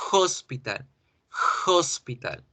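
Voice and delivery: HOSPITAL with a breathy English h at the start; English aspirated h. Shown as a demonstration. Teacher models the English word hospital, aspirated h. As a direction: begin "hospital" on an audible puff of h. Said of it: "como en la palabra hospital".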